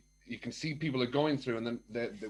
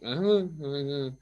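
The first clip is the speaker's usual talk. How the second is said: mock half-listening "uh-huh" noises; imitated absent grunts. Wife mimics his replies over dinner, absent-minded grunts. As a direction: grunt along as if not listening. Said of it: "and you've just".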